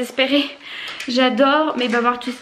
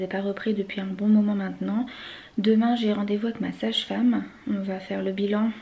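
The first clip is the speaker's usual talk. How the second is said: out of breath; 3 semitones lower, 8 dB quieter than usual. Real, not acted. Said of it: "Je suis essoufflée".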